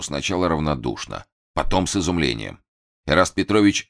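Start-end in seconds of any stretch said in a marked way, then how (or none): none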